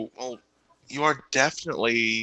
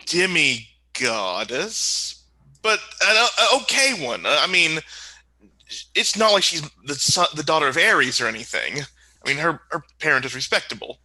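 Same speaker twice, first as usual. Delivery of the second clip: lightly voiced flustered prince; 4 semitones higher than usual. Prince introducing a demigoddess to parents, lightly flustered. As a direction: backpedal excitedly as you introduce someone.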